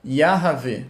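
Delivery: Yahvé with a breath of vowel after the h, ya-ha-VÉ; slow Yahvé. Shown as a demonstration. Teacher showing the slow form of the divine name. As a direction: say Yahvé slowly, sounding the half vowel.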